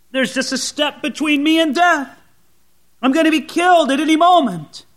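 desperate. Acted. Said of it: "desperation in the voice of David".

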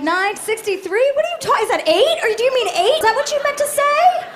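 rising, exasperated as if doing bad math aloud; baffled disbelief. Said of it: "I'm like".

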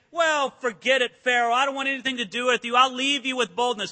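brash, loud brush-off to Pharaoh; bold defiance. Pretend. Israelites shrugging off Pharaoh, mock bold. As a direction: toss it off like nothing scares you. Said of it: "it's one thing to say".

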